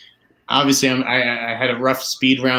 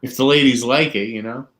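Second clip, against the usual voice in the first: a casual demo of Boston talk; Boston accent. Shown as a demonstration. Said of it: "I can do it".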